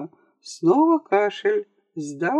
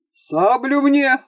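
slow, higher, louder bellow; roaring; 7 semitones higher, 3 dB louder, slower than usual. A narrator's reading. Captain demands his sabre from Grob, roaring. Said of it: "взревел капитан".

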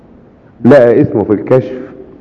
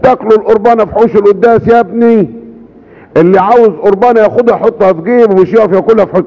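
higher mock reprimand; Pope Kyrillos scolding; 5 semitones higher than usual. Pope Kyrillos teasingly scolding the hungry man, higher. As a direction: tease him with a stern higher voice. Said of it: "قال له".

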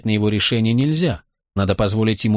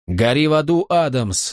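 gleeful shout; 4 semitones higher than usual. Acted. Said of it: "захлёбывался от восторга Брэд".

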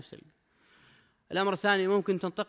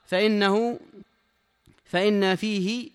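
formal text reading; 3 semitones higher, 6 dB louder, much slower than usual. Acted. Reads the sheikh's text aloud.

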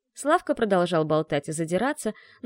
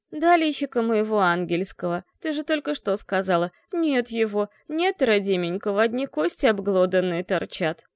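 mock wail. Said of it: "Вполне реалистично провыла я".

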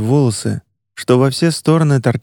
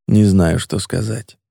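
tearful; 4 semitones lower than usual. Acted. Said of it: "всхлипнул".

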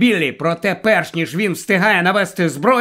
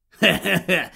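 chuckle; 3 dB quieter than usual. Acted. Grandpa chuckles before his answer.

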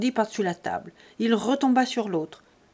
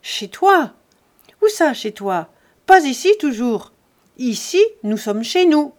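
loud, higher, indignant yelling; angry shout; 4 semitones higher, 8 dB louder than usual. A narrator's reading. Buteau refusing Jean entry to the house, shouting angrily. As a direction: throw the words back at him in rage.

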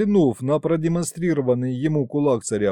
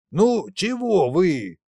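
sulky whine; 5 semitones higher, slower than usual. A narrator's reading. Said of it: "насупился Николаша".

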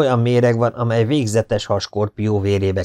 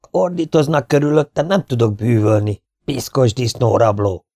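indignant complaint, pitched high at the start; irritated scolding; 3 semitones higher than usual. Acted. Arab complains the shouting spoils his charming, irritated. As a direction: scold crossly, then land the insult.

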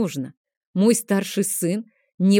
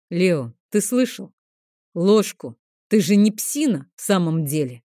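rough shout. Acted. Dragon scolds the boy, gruff mild shout. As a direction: snap at the boy like a rude mentor. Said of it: "грубовато окрикнул он".

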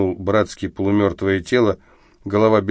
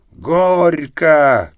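put-on higher, louder drunken wedding yell; wedding cry; 8 semitones higher, 5 dB louder than usual. Drunk Arestov yelling like a wedding guest. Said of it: "как пьяный деверь на свадьбе возопил".

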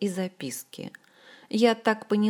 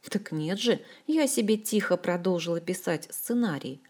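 usual speaking voice

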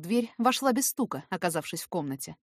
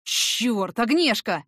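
crying out; 3 semitones higher, 5 dB louder, much slower than usual. A narrator's reading. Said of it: "вскрикнул".

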